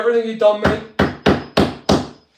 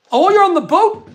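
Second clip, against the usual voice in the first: surprised; 9 semitones higher, 6 dB louder than usual. Real, not acted. Viewer comment on live stream.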